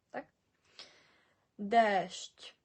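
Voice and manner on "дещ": Дещ with a loud, long "e", "deeesht"; long vowel. Shown as a demonstration. Teacher giving an example, Дещ with long vowel. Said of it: "ці літери ми читаємо довго".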